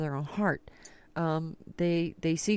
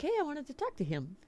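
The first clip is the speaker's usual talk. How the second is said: mock complaint; 8 semitones higher, 6 dB quieter, faster than usual. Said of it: "I'm like".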